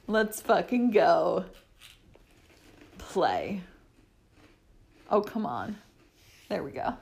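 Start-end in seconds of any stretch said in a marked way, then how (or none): 3.0-6.9 low whispered command; whispering. Real, not acted. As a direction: whisper it to start the show.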